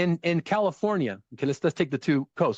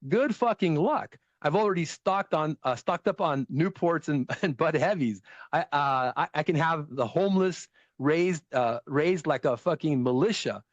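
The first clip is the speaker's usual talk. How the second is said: Boston guy rant; 2 semitones higher than usual. Retold or imitated. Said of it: "He goes".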